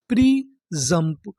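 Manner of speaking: "प्री जंप" read slowly in two separate pieces; broken into syllables. Shown as a demonstration. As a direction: sound out "प्री", pause, then "जंप". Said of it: "तोड़-तोड़ के पढ़ते हैं". ("प्री जंप" को धीरे-धीरे तोड़कर पढ़ें)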